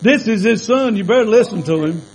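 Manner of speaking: lightly done South Carolina redneck accent, fast, with a laugh; preacher's playful South Carolina redneck take. Shown as a demonstration. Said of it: "in South Carolina redneck".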